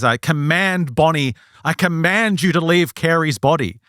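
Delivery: measured, mildly authoritative order; mock booming command. Doctor orders the spirit out of his patient, mild mock command. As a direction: play at being commanding, lightly. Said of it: "So in a booming voice".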